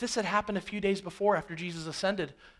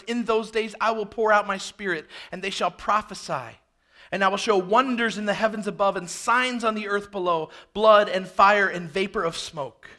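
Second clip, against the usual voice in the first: forceful, driving recitation; preached scripture reading; 4 dB louder than usual. Acted. Peter quotes the prophet Joel to the crowd, forceful proclamation.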